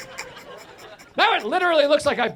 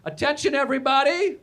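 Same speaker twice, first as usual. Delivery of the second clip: mock yell; 5 semitones higher than usual. Bride's friend addresses the breakfast restaurant, mild mock yell. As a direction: call the room to attention, lightly hammed-up. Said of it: "she just yells out".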